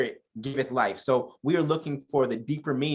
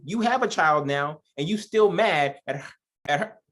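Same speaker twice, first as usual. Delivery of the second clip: preacher scolding Sarah for mistreating Hagar, heated and raised; 4 semitones higher than usual. Acted. Scolding Sarah, rising heat.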